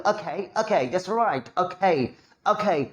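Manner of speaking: okay said slow, with an aa-like first vowel, English style; a light mock foreign accent on okay; foreigner's okay. Teacher imitating how a foreigner says okay. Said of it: "सामने वाला क्या बोलेगा".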